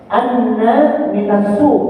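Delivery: slow, careful Arabic with a doubled "Anna"; Arabic recitation. Shown as a demonstration. Teacher reading an Arabic example to the class, slow and careful. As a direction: hold the "nn" in "Anna", then read "minas suq" slowly. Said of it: "Ana minas suq".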